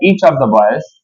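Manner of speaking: very slow, word by word; slow dictation. Shown as a demonstration. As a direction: dictate slowly to students. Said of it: "मैंने बोल दिया बेटा".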